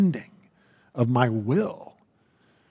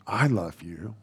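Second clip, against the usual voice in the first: softer, lower and tender; gentle shepherd; 4 semitones lower, 4 dB quieter than usual. Acted. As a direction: speak as a loving shepherd to his sheep. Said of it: "your shepherd's voice saying".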